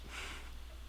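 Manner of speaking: quiet, breath-only giggle; soft giggle. Real, not acted. Viewer charmed by a character's blush, soft giggling. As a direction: let out a small voiceless giggle.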